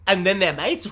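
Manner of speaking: baffled echo with rising end; mock disbelief. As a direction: repeat it as an incredulous question. Plays baffled listener repeating it.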